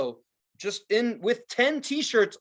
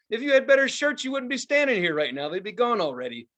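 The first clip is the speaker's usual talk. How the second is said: mock telling-off; 5 semitones higher than usual. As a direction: snap back at the shirt seller. Retorting to shirt seller.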